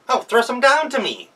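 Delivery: high, loud fake-grandma voice; a wolf sweetly playing granny; wolf disguised as grandma, cooing at the girls; wolf posing as grandma. Wolf begging for nuts.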